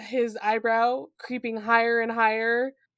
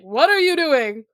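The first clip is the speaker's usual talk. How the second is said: louder, challenging inspector's question; interrupting inspector; 2 semitones higher, 6 dB louder than usual. Acted. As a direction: catch her out, mock-stern. Voicing the inspector interrupting her.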